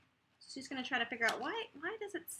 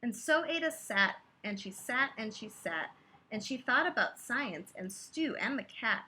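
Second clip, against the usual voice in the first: rhythmic read-aloud of a rhyming book; lilting bedtime-story voice; story narration. A narrator's reading. Reading a picture book aloud.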